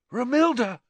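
high, rapt cry of the name; lovestruck. A narrator's reading. Ron hears only his beloved's name, lovestruck. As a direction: seize on the name, thrilled.

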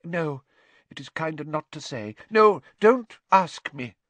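high dramatic fortune-teller, full of woe; pitying doom-laden seer. Acted. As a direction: mourn over the poor child, swelling on key words.

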